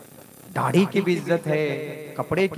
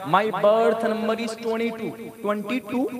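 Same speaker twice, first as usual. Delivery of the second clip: "twenty-two" swallowed in a put-on Western accent; a hint of a put-on British accent, slow; mock foreign accent; 3 semitones higher, slower than usual. Shown as a demonstration. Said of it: "जब American या British accent में बोलेंगे".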